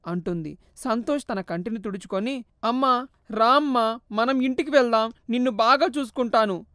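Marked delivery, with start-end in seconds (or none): 2.6-6.6 son coaxing his mother home; mild pleading; gentle plea. Acted.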